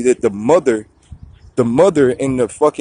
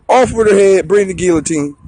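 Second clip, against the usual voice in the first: ranting king; 5 semitones higher than usual. Acted. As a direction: bellow the order like a petty king. King ordering execution again.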